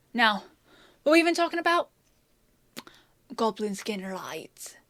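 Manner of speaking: under-the-breath whisper, recalling the topic; whispered aside. Acted. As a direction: whisper it to yourself. Muttering to herself, remembering.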